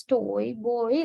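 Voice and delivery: put-on "toy, boy" with the oy glide slightly dragged; drawn-out vowels. Shown as a demonstration. Teacher showing students the two-vowel sound in words, drawn-out vowels. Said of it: "little bit drag-, dragging is there".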